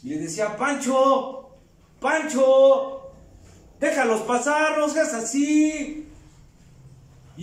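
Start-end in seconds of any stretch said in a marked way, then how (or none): 0.5-1.6 first call of the name, raised. Retold or imitated. Abuela llama al abuelo. 2.0-3.1 second call of Pancho, louder and pressing. Retold or imitated. Abuela llama al abuelo de nuevo. 3.8-6.1 higher, raised plea, slow at the end; a grandmother pushing her husband to give in; pleading grandmother. Retold or imitated. Abuela pide al abuelo.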